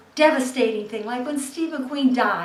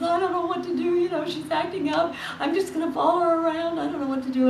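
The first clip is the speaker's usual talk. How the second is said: higher-pitched, anxious phone voice; fretting granddaughter; 6 semitones higher, 4 dB quieter, faster than usual. Acted. Granddaughter tells her mother about grandma, fretting in a higher voice. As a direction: voice a worried young woman, higher. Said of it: "she's talking to her mother".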